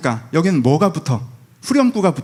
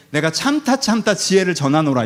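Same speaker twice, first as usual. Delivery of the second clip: mock lofty. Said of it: "이런 태도로".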